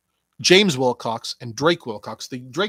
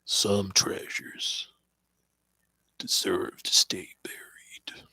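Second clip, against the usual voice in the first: slow, hushed, lower whispered impression; impression of his voice; 5 semitones lower, 4 dB quieter, slower than usual. Shown as a demonstration. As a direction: breathe it out slow like a menacing secret. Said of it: "I was trying to do your voice".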